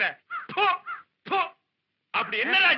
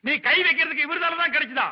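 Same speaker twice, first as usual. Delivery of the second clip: indignant, insulting telling-off; scolding; 2 semitones higher than usual. Acted. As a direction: tear into him like a useless underling. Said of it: "ஏன்பா அவன் இப்படி திட்டுற".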